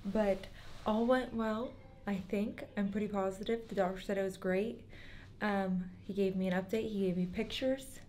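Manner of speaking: soft, hushed words from hiding; whispering while hiding. Real, not acted. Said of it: "I'm hiding in the bathroom".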